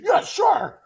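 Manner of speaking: high, loud military yes sir; snappy little kid. Retold or imitated. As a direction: snap to attention like a cadet. Kid snaps to attention.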